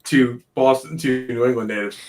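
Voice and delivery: New England accent, let through; relaxed Boston accent; natural Boston accent. Shown as a demonstration. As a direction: talk like a Boston native. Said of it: "can I drop my accent real quick".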